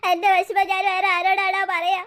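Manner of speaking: slow, drawn-out wail; loud lovesick sobbing; noisy crying. Acted. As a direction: bawl out your sorrow. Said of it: "നീ ഇങ്ങനെ കരഞ്ഞ് ബഹളം വെച്ച".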